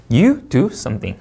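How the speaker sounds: slow read, dropping on "something"; spaced-out "you do something", falling on "something". Shown as a demonstration. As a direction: start "you" up, let "something" fall to a close. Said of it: "내려 있습니다".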